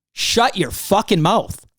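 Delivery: slow, deliberate angry order, every word spaced out; angry command. Real, not acted. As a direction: spit it out slowly and with contempt. Furious rant aimed at Montante.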